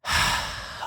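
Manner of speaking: soft unvoiced sigh of defeat; resigned sigh. A narrator's reading. Rainbow giving in to the puppies, resigned sigh. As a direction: give up on a breath. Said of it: "Rainbow sighed".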